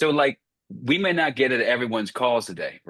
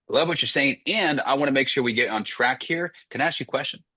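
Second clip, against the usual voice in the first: quick and certain, no gap before the question; quick, no hesitation; 2 semitones higher than usual. Shown as a demonstration. Sales coach showing the trainee the line, quick and sure. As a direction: rattle it off quickly, with no pauses. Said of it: "See how quick it is?".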